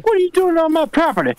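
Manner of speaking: high, fast, indignant yell; high angry homeowner. Acted. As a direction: squawk at the trespasser. Acting a shouting homeowner.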